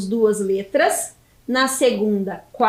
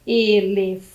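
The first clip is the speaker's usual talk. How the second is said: ELEFANTE sounded out with long gaps, lower; syllable by syllable; 5 semitones lower, slower than usual. Shown as a demonstration. Teacher builds the word for pupils, syllable by syllable. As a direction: hold FAN, pause, then add the final TE. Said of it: "que é a última sílaba".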